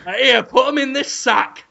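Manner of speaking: badly faked rock star customer voice; a rock singer. Man buying cats from a seller, half-managed impression. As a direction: make a rough attempt at a celebrity impression. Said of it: "played by a rock singer".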